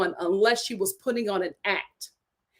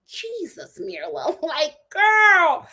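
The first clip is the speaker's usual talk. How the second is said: shocked laughing reaction; 5 semitones higher, 5 dB louder, much slower than usual. Real, not acted. Reacting to blunt quote.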